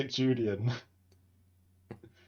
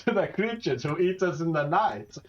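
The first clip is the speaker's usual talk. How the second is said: grand lemur king voice; 5 semitones higher than usual. Pretend. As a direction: proudly present his lemur boy. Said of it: "This is my little lemur boy".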